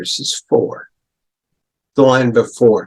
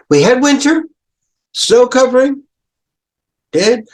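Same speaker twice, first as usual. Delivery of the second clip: higher, louder storytelling; dramatized winter; 12 semitones higher, 4 dB louder than usual. Shown as a demonstration. Teacher dramatizing winter for the class, higher voice. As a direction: paint the dead winter vividly. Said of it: "mimics flat winter".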